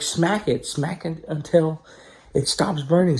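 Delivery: lightly voiced grandma giving urgent instructions. Grandma coming to help with the fire, urgent.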